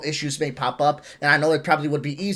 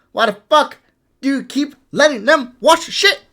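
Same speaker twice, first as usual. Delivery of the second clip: frustrated; 8 semitones higher, 5 dB louder than usual. Real, not acted. Frustrated rant peak.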